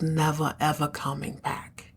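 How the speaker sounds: breathy hushed finish; dramatic whisper. Retold or imitated. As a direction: drop it to a whisper for effect. Henchman's final blow to Fallon.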